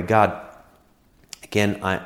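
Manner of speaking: prayer that sinks low and soft; modelled prayer. Shown as a demonstration. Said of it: "go on a walk and pray".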